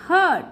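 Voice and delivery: हर्ड with a central अ vowel. Shown as a demonstration. Teacher showing learners another E sound, हर्ड with अ. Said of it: "अ के रूप में भी".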